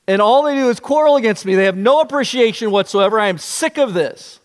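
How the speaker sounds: rising, fast, exasperated rant; exasperated Moses. Retold or imitated. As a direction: build it up as a fed-up leader. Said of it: "He thinks".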